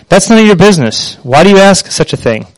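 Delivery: mildly angry father, a touch sharp; a hint of the irritated dad snapping back; reading the father's words with understated anger. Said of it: "the man said angrily".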